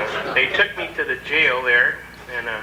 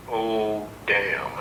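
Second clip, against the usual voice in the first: low, dismayed guard; 4 semitones lower, 5 dB quieter than usual. Retold or imitated. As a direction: lower muttered dismay. Guard reacts to paper.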